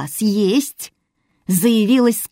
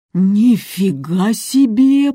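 jumping up; 4 dB louder, much slower than usual. Acted. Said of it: "подскочила Виктория".

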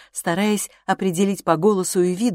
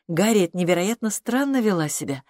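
ordinary delivery, nothing marked

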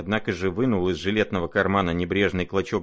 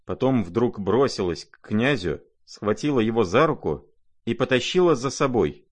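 ordinary delivery, nothing marked

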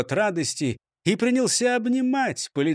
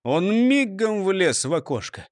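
plain reading voice

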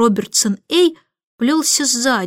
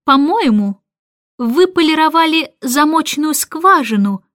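sarcastic; 5 semitones higher, 3 dB louder than usual. Acted. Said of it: "саркастически заметила она".

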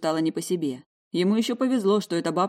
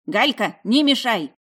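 granny shouting; 5 semitones higher, 6 dB louder, slower than usual. A narrator's reading. Second old woman yelling.

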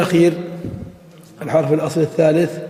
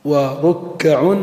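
drawn out; much slower than usual. Shown as a demonstration. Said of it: "teacher drawing out example word".

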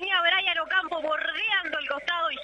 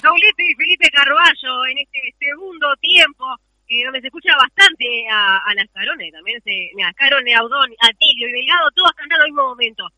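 loud goal recap; 10 dB louder than usual. Real, not acted. Co-commentator shouts recap.

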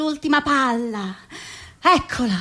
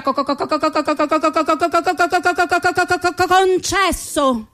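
a chain of co's before concesso; a stammering president granting a last wish; long stammer; faster than usual. Acted. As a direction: keep stuttering, then finally land the word.

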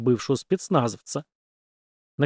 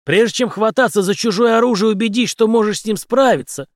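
louder, higher mocking lesson; smirking warning; 8 semitones higher, 5 dB louder than usual. A narrator's reading. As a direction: lecture him with a smirk. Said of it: "усмехнулся он". (Генри с усмешкой поучает, громко)

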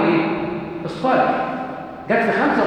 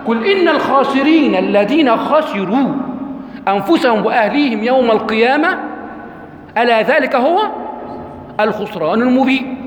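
slow, raised chanting recitation of the verse; Quran recitation; 3 semitones higher, slower than usual. Acted. Teacher reciting the verse to his students in slow chanted recitation. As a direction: intone the verse slowly like a reciter.

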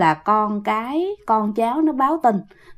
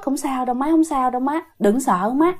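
gently soothing, understated; reassuring; 4 dB quieter than usual. Retold or imitated. Daughter treats her mother's wound, gently reassuring. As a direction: comfort her softly with repeated assurances.

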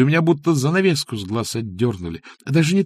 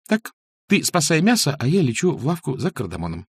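louder, higher bossy call; sharp call; 6 semitones higher, 3 dB louder than usual. A narrator's reading. Masha orders him to save the meat, louder and higher. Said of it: "прикрикнула".

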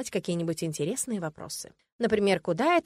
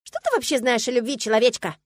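higher, louder scoff; snorting mare; 5 semitones higher, 7 dB louder than usual. A narrator's reading. Mare scoffing at the heroine about love. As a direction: scoff at the silly human. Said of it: "фыркнула Ириска".

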